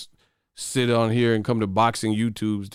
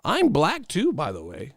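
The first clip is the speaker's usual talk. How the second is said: mock non-black fan; 7 semitones higher than usual. Mocking fans who claim they're black, high put-on voice. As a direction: put on a high-pitched fake-black commenter. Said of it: "no black people even talk like this".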